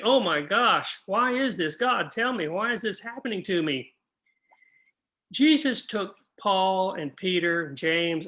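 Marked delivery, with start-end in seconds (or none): 0.0-3.9 mock shock. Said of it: "totally surprised and shocked and saying".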